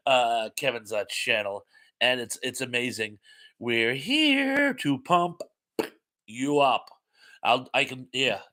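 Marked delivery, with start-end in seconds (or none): 3.6-6.9 drawn-out catchphrase. Acted. Reading a catchphrase to the chat, slow and drawn out. First take of quoted catchphrase.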